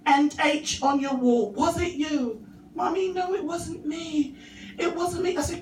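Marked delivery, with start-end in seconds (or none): 0.0-2.4 forced sweet mum. Retold or imitated. Mum holding it together. 2.7-5.4 put-on higher, softer pleading child; little boy voice. Son insisting to his mum it wasn't him, high and pleading.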